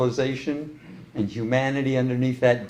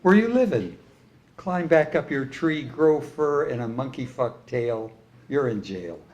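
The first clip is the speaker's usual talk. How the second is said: poem recital. Acted. Continues reciting own poem.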